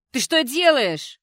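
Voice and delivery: high, loud, drawn-out yell; shrieked protest, stretched out; outraged yell. A narrator's reading. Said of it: "заорала Кэти".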